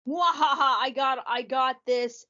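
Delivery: high gloating villain cackle; mad scientist. Pretend. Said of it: "Blitz is gonna be like".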